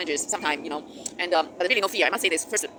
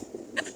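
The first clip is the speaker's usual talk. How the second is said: short, soft laugh at oneself; real amused laugh; 9 dB quieter than usual. Real, not acted. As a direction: let out a small, amused laugh. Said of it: "I'm laughing about my, my".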